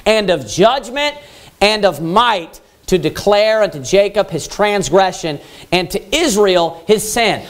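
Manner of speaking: slow, measured reading of the verse; scripture reading. Acted. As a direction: lay out each phrase slowly and solemnly. Reads scripture aloud slowly.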